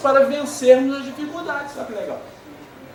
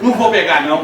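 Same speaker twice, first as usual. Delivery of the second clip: lightly voiced stubborn kid, a bit louder; stubborn child refusal; 5 semitones lower, 5 dB louder than usual. Son refuses father a second time, mock stubborn. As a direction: dig in and refuse again. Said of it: "ele também repetiu a dose".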